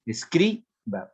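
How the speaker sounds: "Escriba" slowly split, es-CRI, then "ba"; stress on penultimate syllable. Shown as a demonstration. Teacher giving an example of palabra grave, "Escriba" slow with stress on CRI. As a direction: hold CRI in "Escriba", then let "ba" drop. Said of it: "palabra grave".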